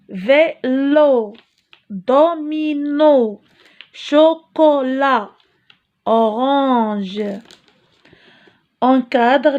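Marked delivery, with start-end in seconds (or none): 0.1-7.2 "Vélo, domino, chocolat" read slowly and clearly; slow classroom model reading; slow teacher reading. Shown as a demonstration. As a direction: spell out each word slowly for pupils. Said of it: "Le son qui se répète".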